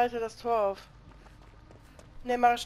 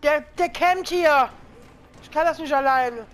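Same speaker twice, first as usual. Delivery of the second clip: frustrated shout; 6 dB louder than usual. Real, not acted. Game frustration, slow and loud.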